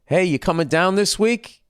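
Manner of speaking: high-pitched, overeager mock caller; chirpy rising question, mocking; pestering caller. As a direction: imitate a recruiter phoning yet again. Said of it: "they just kept calling me".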